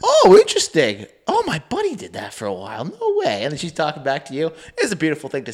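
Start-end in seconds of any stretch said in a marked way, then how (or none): 0.0-3.4 high, chirpy small-talk Canadian; mock overly friendly Canadian neighbour; stereotypical Canadian. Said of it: "the stereotypical Canadian where you're like".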